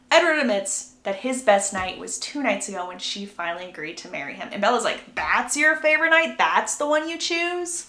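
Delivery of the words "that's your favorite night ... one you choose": higher-pitched mock disbelief; acting out a baffled reply; incredulous question. Acts Bella's disbelieving reply.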